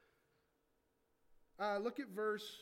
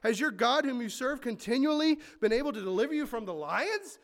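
calling out louder as the anxious king; a mildly anguished king calling louder; anguished cry; 3 semitones higher, 8 dB louder than usual. A narrator's reading. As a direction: cry out to Daniel in the den, pleading. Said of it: "he cried out in a tone of anguish".

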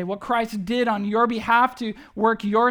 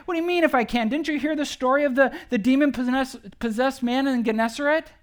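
higher and louder, mock disbelief as Jesus; incredulous Jesus; 4 semitones higher, 4 dB louder than usual. Jesus amazed the father doubts his power, incredulous and louder. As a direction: build up the list in amazed disbelief. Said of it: "But he's like".

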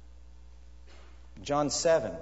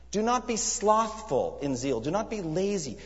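fervent charge; 7 semitones higher than usual. Acted. Preacher charging his hearers not to be lazy, fervently. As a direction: preach it as a command, slow and raised.

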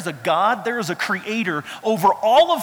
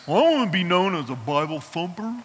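mock churchy voice. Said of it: "I know what the fear is".

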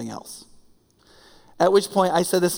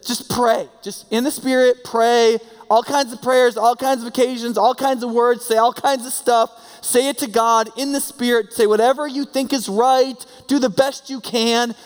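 raised, urgent preaching voice; quoting the apostle; 5 semitones higher than usual. Retold or imitated. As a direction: preach it as the apostle's own words. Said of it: "He's just said".

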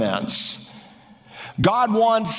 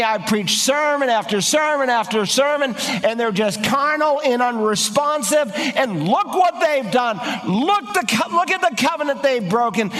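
a higher, pleading prophet pouring out his grievance; Elijah's complaint; 3 semitones higher than usual. Acted. Preacher acting out Elijah protesting to God, pleading and aggrieved. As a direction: plead your case to God like a weary, wronged prophet.

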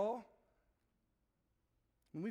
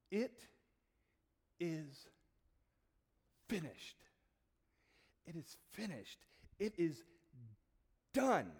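tag; 4 semitones lower, slower than usual. Acted. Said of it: "utters, right before he passes, utters this final phrase".

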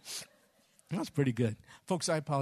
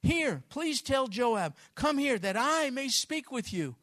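high, loud call from the wall, slow on here; 8 semitones higher, 6 dB louder, slower than usual. Retold or imitated. Wise woman calls to Joab from the wall, loud and slow. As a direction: shout down to the general over the wall. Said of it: "She calls out".

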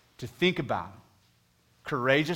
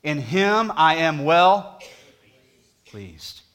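booming voice of God; 4 semitones higher, 11 dB louder, much slower than usual. Retold or imitated. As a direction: announce it like God from heaven. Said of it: "he speaks from heaven with a voice that's audible and says".

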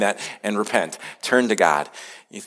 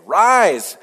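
higher, declaiming scripture as God's summons; voice of the Lord; 4 semitones higher than usual. Acted. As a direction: proclaim it like a courtroom summons from on high. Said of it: "hear what the Lord has to say".

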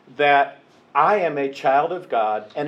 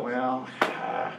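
grudging; 4 semitones lower, 4 dB quieter than usual. Pretend. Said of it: "He didn't go".

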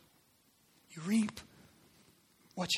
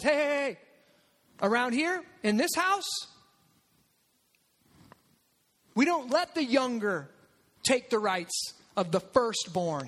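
scolding host. Acted. Laban voiced scolding Jacob.

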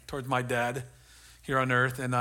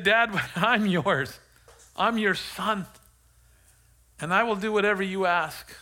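retold pledge in a raised, earnest voice; higher, emphatic declaration of devotion; heartfelt vow; 5 semitones higher, 4 dB louder than usual. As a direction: re-enact giving yourself over to your father. Acting his vow to his father.

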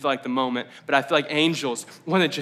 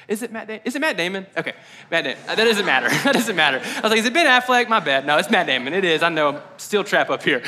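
loud, high and laughing at his own slip; laughing at himself; 5 semitones higher, 6 dB louder than usual. Real, not acted. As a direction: laugh off mixing up the actor's name, much higher and louder. Self-mocking aside, laughing loudly.

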